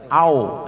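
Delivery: "au" ending in o, like "ao"; contoh salah. Shown as a demonstration. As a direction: let "au" fall open to an o. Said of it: "Jangan sampai dibaca seperti o". ("au" keliru dibaca seperti ao)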